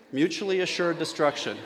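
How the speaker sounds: flat robotic monotone. Real, not acted. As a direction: say it like a machine. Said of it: "that was a lovely robotic voice".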